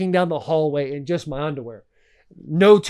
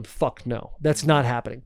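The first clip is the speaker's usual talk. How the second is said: a mock-polite refusal, softer; 4 semitones lower, 5 dB quieter than usual. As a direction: turn the kids down softly, sweetly sarcastic.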